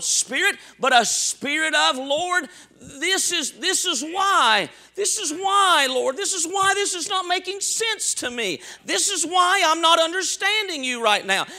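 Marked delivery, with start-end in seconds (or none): 2.0-11.5 higher-pitched plea to the Lord; pleading argument. Acted. Believer arguing his case before the Lord, pleading.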